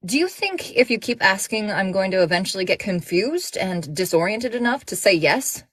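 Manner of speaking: sarcastic retort. Acted. Heroine rebuffing a flirt.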